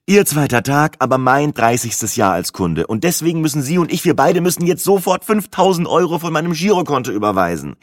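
building from firm to pressing; insistent customer. Acted. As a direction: press the clerk, pitch climbing. Customer insists against bank clerk.

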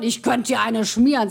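slow, weighty mock threat; nachgespielte Wut. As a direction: scold like a worked-up husband, lightly acted. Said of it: "Willi auf Hochtouren". (gespielt wütende Drohung)

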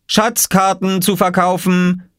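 hoher, langsamer Verkäuferruf eines Jungen; ausrufend. A narrator's reading. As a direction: ruf es gedehnt und hoch wie ein Marktschreier. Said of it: "rief Oskar". (langsam gedehntes, hohes Ausrufen)

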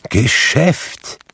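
high, indignant ghostly exclamation; crying out. A narrator's reading. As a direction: throw the word back as a cry. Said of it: "rief das Gespenst".

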